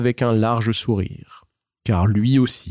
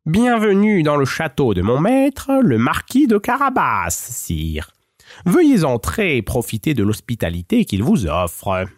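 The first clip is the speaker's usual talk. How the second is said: higher, courtly cat voice bowing to the ogre; a sly, flattering little cat; Puss in Boots; 5 semitones higher than usual. Acted. Cat flatters the ogre on his throne, higher courtly voice.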